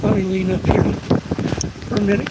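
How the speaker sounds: winded, pausing to breathe; breathless words between gasps; out of breath. Real, not acted. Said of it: "catch my breath".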